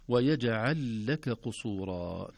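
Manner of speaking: ويجعل لك قصورا with the lam doubled and sukun kept; careful Quranic recitation; correct recitation. Shown as a demonstration. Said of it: "ولا نقول ويجعل لك قصورا".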